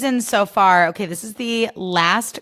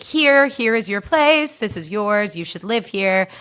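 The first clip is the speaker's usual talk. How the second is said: the universe speaking; 2 semitones higher, slower than usual. Retold or imitated. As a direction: hand it over like fate itself. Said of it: "the universe was like".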